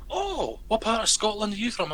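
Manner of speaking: high, curious "oh" into a question; imitating a delighted Scottish teacher; retold interested teacher. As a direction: ask with piqued interest. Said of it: "And she went".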